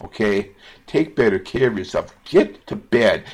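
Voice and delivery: real emotional plea to viewers. Real, not acted. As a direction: plead with them as if their life depends on it. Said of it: "sorry for getting so emotional".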